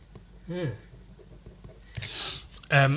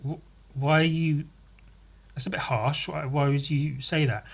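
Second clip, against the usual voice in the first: hurt partner; 5 dB quieter than usual. Acted. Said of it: "his partner will be like".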